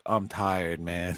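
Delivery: soft, drowsy imitation; tired mumble. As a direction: mumble it, half asleep. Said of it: "He's like".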